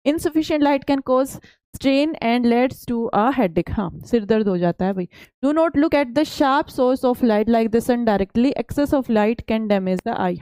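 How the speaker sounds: slow, deliberate reading of the English slide. Acted. Teacher reads the textbook slide to students, slow and careful. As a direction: read each word out for the class.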